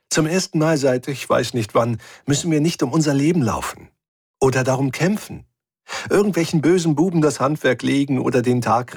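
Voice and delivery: a hint of Efi savouring the calm; voicing Efi. Efi teases Rick about finally being able to rest, lightly voiced and amused.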